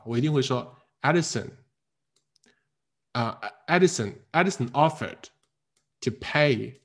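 long pauses between word groups; split into sense groups. Shown as a demonstration. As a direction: read chunk by chunk with clear breaks. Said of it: "把这个意群分割清楚".

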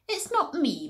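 cow's mild mooing protest; mooed. Acted. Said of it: "mooed the cow".

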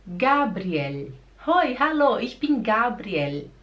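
"Gabriel" stressed GA-briel, clear final L; German pronunciation. Shown as a demonstration. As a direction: model greeting with German-style "Gabriel". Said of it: "E o Gabriel?".

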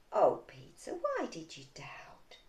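low, soft, slow question; hushed, tender disappointment; gentle reproach. Acted. Jesus to rescued Peter in the boat, gentle reproach.

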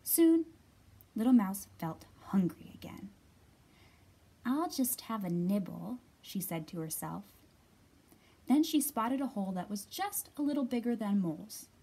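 put-on lively read-aloud for young children; clear, projected picture-book reading; story narration. A narrator's reading.

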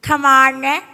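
slow teacher ushering a pupil in; lightly voiced schoolteacher, drawn out; acted teacher invitation. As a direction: invite the student inside, slowly. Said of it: "ครูเขาบอกว่า".

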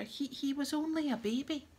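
high, halting tearful protest; sobbing. A narrator's reading. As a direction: sob it out, stumbling on the start. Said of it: "sobbed Lavender".

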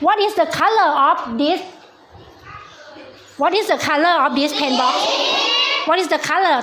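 very slow, each word spelt out clearly; slow teacher English. Shown as a demonstration. Teacher to young pupils, very slow clear English. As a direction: drag the question out word by word for kids. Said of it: "teacher quizzing young pupils".

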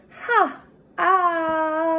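ha and ah, drawn out high as a phonics model; short a sound. Shown as a demonstration. Teacher modelling the short a sound for a pupil. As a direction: stretch the short ah for a student. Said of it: "and then like ha".

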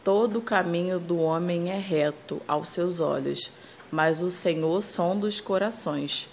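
slow, measured Bible verse reading; a slow, solemn Bible reading to family; reading scripture aloud. Real, not acted. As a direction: read the verse slowly and solemnly. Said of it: "Ó. (reading the promise card)".

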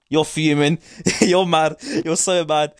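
laughing taunt. Real, not acted.

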